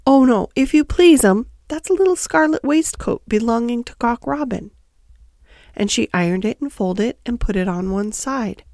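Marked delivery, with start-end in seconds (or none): 0.1-4.7 lightly voiced obliging hedgehog washerwoman; polite, correcting Tiggywinkle. Tiggywinkle corrects Lucy about the laundry, obliging washerwoman. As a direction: start high and emphatic, then settle into explaining.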